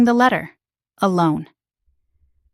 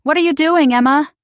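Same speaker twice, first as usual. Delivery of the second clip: high, raised demand; father catching Emma with Jake, angry raised question; angry dad; 7 semitones higher, 3 dB louder than usual. Acted. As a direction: confront her, much higher and a bit louder. Dad angrily confronting daughter.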